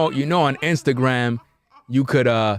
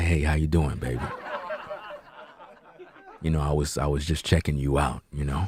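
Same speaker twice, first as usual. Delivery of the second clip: very deep, hushed, smooth seductive voice; 9 semitones lower, 8 dB quieter than usual. Describing men sliding into women's DMs, doing a deep soul singer's voice. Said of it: "They put on the singer's voice".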